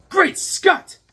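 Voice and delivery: high, loud astonished cry; shocked exclamation. Acted. Fisherman seeing a man walk on water, shocked. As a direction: gasp it out in shock. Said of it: "He's like".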